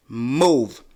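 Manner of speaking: loud repeated order; second hoot. Retold or imitated. Leaning out the window at the driver, loud order. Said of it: "I'm like".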